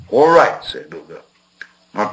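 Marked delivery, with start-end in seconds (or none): 0.1-0.6 nervous agreement. A narrator's reading.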